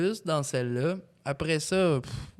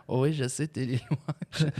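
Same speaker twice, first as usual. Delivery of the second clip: dopey deep voice. Retold or imitated. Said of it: "Avec sa grosse voix". (voix grave et niaise)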